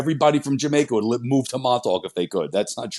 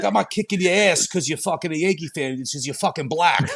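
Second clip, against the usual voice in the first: mock Boston guy accent, pitched up at first; 4 semitones higher than usual. Boston local telling a visitor off, badly imitated Boston accent. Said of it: "That's just the guy from Boston".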